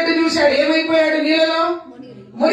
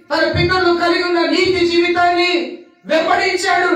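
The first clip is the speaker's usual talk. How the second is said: ordinary delivery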